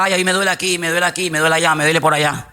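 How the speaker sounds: a whiny list of aches; hammed-up grumble of aches; mock complaining. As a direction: moan about every pain, lightly. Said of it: "no te estoy preguntando qué es lo que te duele".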